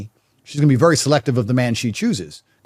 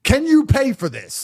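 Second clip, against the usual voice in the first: imitated daughter to boyfriend; 6 semitones higher than usual. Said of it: "She's gonna say to her boyfriend".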